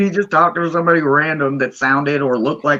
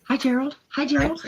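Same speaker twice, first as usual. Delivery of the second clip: talking through a mouthful of food; mouth full; 11 semitones higher, 4 dB quieter than usual. Real, not acted. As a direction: say it while still chewing. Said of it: "you caught me with my mouth full".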